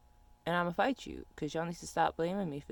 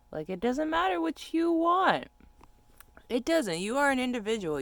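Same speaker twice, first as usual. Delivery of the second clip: heated rant; 8 semitones higher, 6 dB louder than usual. Real, not acted. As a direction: belt it out indignantly. Ranting about unwanted calls.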